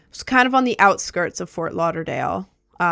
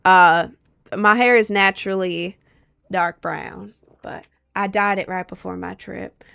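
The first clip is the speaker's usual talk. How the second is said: light country Southern accent. Shown as a demonstration. Streamer answers a viewer's question on request, Southern accent. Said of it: "gonna answer in my southern accent".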